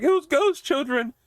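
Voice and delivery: very high, drawn-out mock panic. Actress reporting ghost children to her friend, mock panic. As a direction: squeal it slowly as a badly acted fright. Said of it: "she starts panicking".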